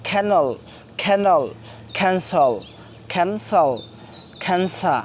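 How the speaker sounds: খ্যানসল with a strong puff of air after the k; aspirated k. Shown as a demonstration. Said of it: "এখন থেকে সেটা যে আমরা খ উচ্চারণ করে বলবো".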